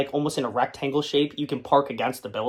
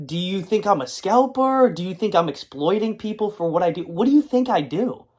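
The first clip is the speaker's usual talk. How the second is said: indignant retort; 6 semitones higher than usual. Retold or imitated. Imagined retort to the insulter.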